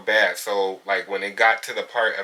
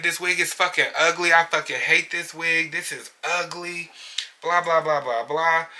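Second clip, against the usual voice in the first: high-pitched mock griping; put-on high voice, mocking an unhappy customer; mimicked complaint; 7 semitones higher than usual. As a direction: imitate the client's disgusted rant, pitched up. Acting out client's complaint.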